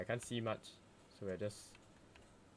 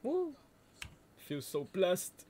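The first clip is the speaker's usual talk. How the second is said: joyful whoop; 10 semitones higher, 6 dB louder, much slower than usual. Real, not acted. Joyful cheer.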